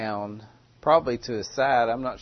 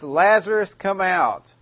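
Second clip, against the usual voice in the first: calling a dead man out, loud and high; loud cry; 6 semitones higher, 4 dB louder than usual. Acted. Jesus calling Lazarus from the tomb, loud cry. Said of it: "he cried out with a loud voice".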